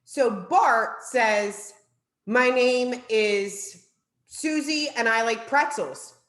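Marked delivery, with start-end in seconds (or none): 2.2-6.1 mock yell out. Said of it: "Bart has to yell out what he heard".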